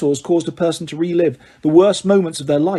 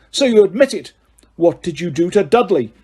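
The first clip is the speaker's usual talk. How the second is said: angry accusation; 2 semitones higher, 3 dB louder than usual. Acted. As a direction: demand it angrily. Vernon accusing Harry.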